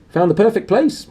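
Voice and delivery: high, loud and triumphant. A narrator's reading. Uncle Vernon proudly calls the family from the car, high and loud. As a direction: announce it like a victory.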